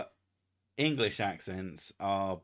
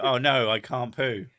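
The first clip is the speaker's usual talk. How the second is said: mock wail; 2 semitones higher, 9 dB louder than usual. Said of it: "then you go".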